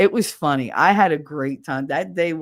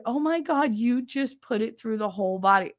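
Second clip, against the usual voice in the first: higher-pitched mock dismay; appalled friend; 5 semitones higher than usual. Friend watching the worm get threaded, appalled. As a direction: mimic a friend aghast at the sight.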